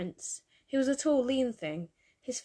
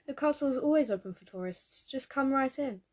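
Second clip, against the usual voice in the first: cheery, higher-pitched welcome; lightly acted friendly guard, pitched up; cheerful guard; 5 semitones higher than usual. A narrator's reading. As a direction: invite them in like a genial gatekeeper. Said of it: "the man's cheerful tone".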